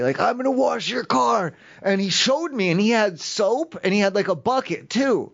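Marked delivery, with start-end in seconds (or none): 0.2-1.5 slow, higher mock menace; hammed-up scary offer; scary threat. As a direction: say it again like a threat. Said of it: "like, real scary".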